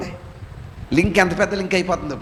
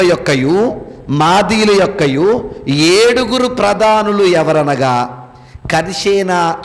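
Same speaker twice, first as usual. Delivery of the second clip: slow, measured Bible reading; scripture reading; slower than usual. Acted. Preacher reading Esther to the congregation, slow solemn scripture reading.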